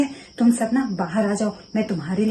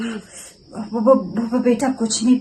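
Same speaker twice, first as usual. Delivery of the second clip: nervous stammer; much slower than usual. Acted. Mother-in-law caught, stammers excuse.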